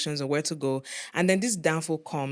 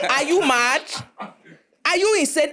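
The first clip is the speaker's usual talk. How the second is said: retold outrage; 9 semitones higher than usual. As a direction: hurl it at him in disbelief. Confronting the chuckling bus driver.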